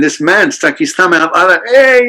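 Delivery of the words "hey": loud, high "hey" in passing; calling out. Retold or imitated. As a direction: hail someone from a passing van. Imitates man calling from van.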